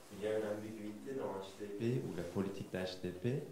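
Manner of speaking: Turkish accent in French; French spoken with a Turkish accent; foreign accent in french. Real, not acted. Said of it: "excusez-moi pour mon français, moi je suis pas français, donc je suis turc".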